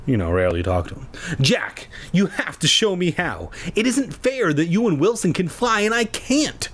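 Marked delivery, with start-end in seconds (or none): 1.4-6.7 high, whiny protest; wailing. A narrator's reading. Mia to Jack about flying, wailing complaint. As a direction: wail it like an unfairly treated kid. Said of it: "she wailed".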